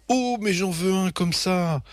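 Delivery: high, thrilled gush; swooning mother. A narrator's reading. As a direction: swoon over a must-have animal. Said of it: "maman tombe en émoi". (maman tout en émoi, voix aiguë)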